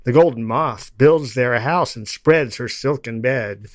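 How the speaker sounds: loud, rhythmic declaiming of a poem; steady chanted verse, each line landed; poetry recital. Acted. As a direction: recite it like a bard to a crowd. Recites Blake poem aloud.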